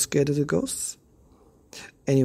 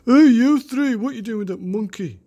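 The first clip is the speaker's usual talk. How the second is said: high, loud bully shouting; 10 semitones higher, 8 dB louder than usual. Acted. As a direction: yell it like a big dumb bully. Bully voice in story.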